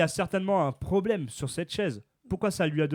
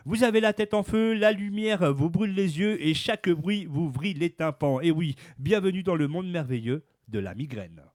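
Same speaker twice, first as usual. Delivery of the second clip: news read. Acted. Reads the news item aloud.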